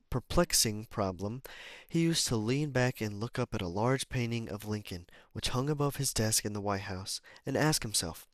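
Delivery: measured, clearly projected book reading; deliberate read-aloud delivery; audiobook narration. Acted.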